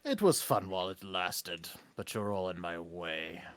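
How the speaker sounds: slow, low, menacing villain speech. Acted. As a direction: threaten them like a boss villain.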